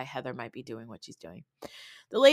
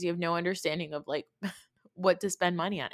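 faster repeat; faster than usual. Real, not acted. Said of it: "You have no understanding of boundaries".

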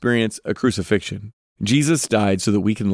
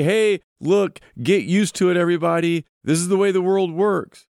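higher-pitched, casual brush-off; mock dismissive; 6 semitones higher than usual. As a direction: tell everyone to get over it, pitched up. Voicing a dismissive reply Jesus doesn't give.

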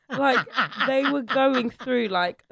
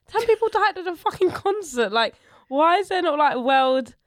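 raised, indignant outburst; outraged; 7 semitones higher, 5 dB louder than usual. Real, not acted. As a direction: let the outrage burst out. Outraged rant.

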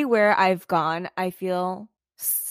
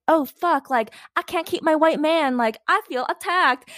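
mock panic; 8 semitones higher than usual. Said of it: "they feel like".

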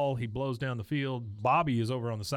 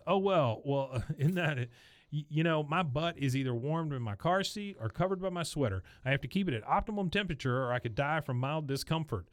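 snapping sarcastic mom; 3 semitones higher than usual. Retold or imitated. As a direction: play Peggy finally losing her patience, all fake sweetness. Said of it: "She breaks and she says".

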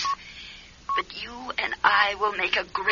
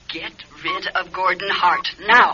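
louder, hard insistent order; stern command; 3 semitones lower, 6 dB louder than usual. Acted. Sheila's ghost sternly ordering Joyce to send Gordon away. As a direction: demand it, no arguing.

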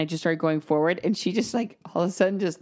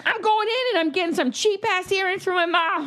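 high chirpy mock resolve; 11 semitones higher than usual. Voicing her own plan.

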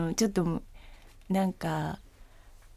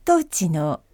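flight announcement. Shown as a demonstration. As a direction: announce calmly to passengers. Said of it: "飛行機アナウンス風で".

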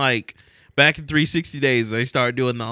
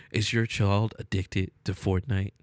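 ad voiceover; 6 semitones lower than usual. Acted. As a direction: read it like a TV ad. Parody rehab commercial.

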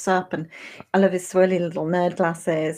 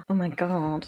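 gasp; 4 dB quieter than usual. Real, not acted. Reacts to surprise announcement.

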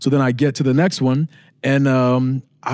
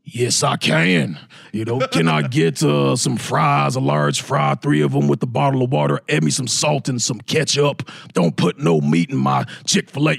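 slow, lightly lower imitation of a big wrestler; Braun Strowman voice; 3 semitones lower than usual. Ordering at the speaker for the kids, a slow big-man voice. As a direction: drag the words out like a hulking giant. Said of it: "can you talk like Braun Strowman?".

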